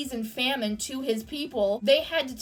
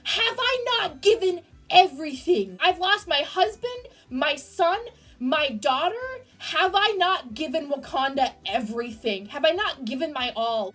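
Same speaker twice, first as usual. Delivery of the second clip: the grieving queen. Retold or imitated. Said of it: "being like".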